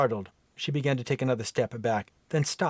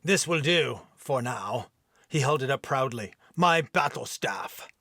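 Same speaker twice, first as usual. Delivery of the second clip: mild gruff Viking. Acted. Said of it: "rough, deep brogue accent".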